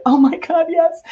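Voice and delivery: retold excited yes. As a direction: act out jumping at the offer. Retold delighted acceptance of offer.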